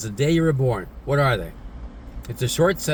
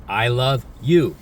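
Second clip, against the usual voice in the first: changed emotion; slower than usual. Shown as a demonstration. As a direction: say it again, but with a changed feeling. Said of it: "I just changed the emotion".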